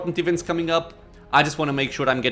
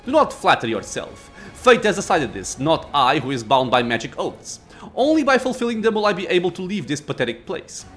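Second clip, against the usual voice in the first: growling lich. Acted. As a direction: snarl with scorn. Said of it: "A low growl escapes the Lich".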